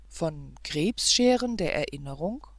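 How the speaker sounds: rising, puzzled repeat of Krebsscheren der Erinnerung; baffled echo. Acted. Governess bewildered, repeating the prince's phrase with a rising question.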